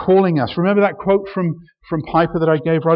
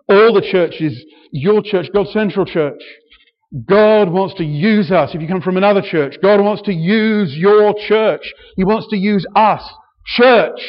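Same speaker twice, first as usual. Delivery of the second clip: preaching louder to the churches; rousing call; 3 semitones higher, 4 dB louder than usual. Real, not acted. Preacher rallying the visiting churches, rousing and loud. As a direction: raise the voice and rally every church.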